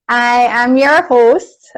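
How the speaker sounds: slow, smooth radio announcer delivery; radio host voice. Pretend. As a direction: put on a broadcast host voice. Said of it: "I sound like a radio TV person".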